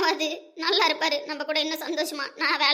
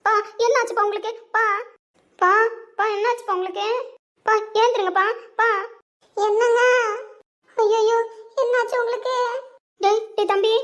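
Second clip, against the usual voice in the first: higher, louder frantic calls to a fallen father; panicked calling; 5 semitones higher, 4 dB louder than usual. Acted. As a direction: cry out in alarm, raised and loud. Daughter and wife find him collapsed. (பதற்றத்துடன் உரத்த அழைப்பு)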